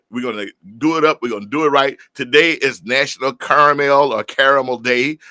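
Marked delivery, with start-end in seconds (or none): 2.1-5.2 "Caramel" said first with three syllables, then as two; Caramel and Caramel, both pronunciations. Shown as a demonstration. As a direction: contrast both ways of saying "Caramel". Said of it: "however you like to say it".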